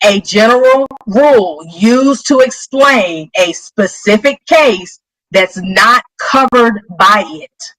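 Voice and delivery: slow, careful restatement of the definition; a slow read of the rule for the class. Shown as a demonstration. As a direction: spell it out slowly so it sinks in. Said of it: "Let me say that again".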